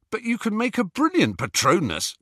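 put-on high protesting young man; lightly voiced Ron protesting. A narrator's reading. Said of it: "protested Ron".

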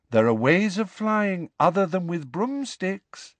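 high, dreamy, unhurried; gently unbothered, floating; serene. A narrator's reading. Luna to Ron, serenely explaining other ways to fly. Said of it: "said Luna serenely".

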